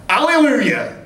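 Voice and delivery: put-on broad Blackburn accent, old dear's joyful shout; Blackburn old lady. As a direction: cry it out like an eighty-year-old Blackburn woman. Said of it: "Broadest Blackburn accent you've ever heard".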